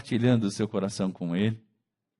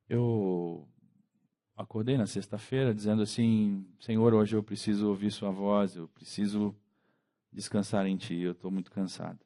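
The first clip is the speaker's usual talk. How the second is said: much softer, lower, intimate prayer voice; hushed confession; 4 semitones lower, 5 dB quieter than usual. Real, not acted. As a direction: speak almost in a hush, tired and honest. Confissão íntima em oração. (oração baixinha e cansada)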